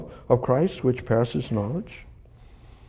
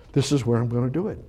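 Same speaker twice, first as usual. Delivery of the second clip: fast, tossed-off answer; quick rush; much faster than usual. Shown as a demonstration. Preacher giving God's reply to the congregation, rushed. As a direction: rattle it off quickly. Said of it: "repeats the line".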